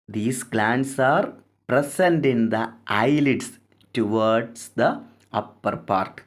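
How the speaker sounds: each English word read out slowly for notes; slow dictation. Shown as a demonstration. Teacher dictating the textbook line to students, very slow and deliberate.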